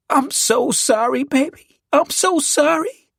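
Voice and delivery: high, slow, tearful woman's voice; high-pitched grieving apology; sobbing consolation. A narrator's reading. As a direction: sob it while holding the bereaved. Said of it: "Lachey sobbed while rocking me".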